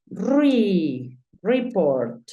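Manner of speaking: "Re" as REE, then "report" as ree-port; syllable sounded out. Shown as a demonstration. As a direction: model "report" with an EE first syllable. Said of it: "porque termina en vocal".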